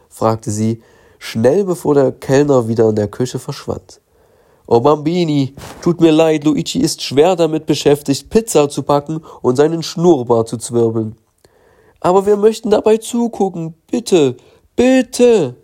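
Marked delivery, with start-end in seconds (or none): 4.7-11.2 a hint of a jolly Italian waiter; playful waiter, slightly higher; lightly Italian waiter. Waiter refuses the children, lightly Italian and cheery. 12.0-15.6 put-on high, pleading child voice; begging girl, high. Mathilda begs the waiter, high and pleading.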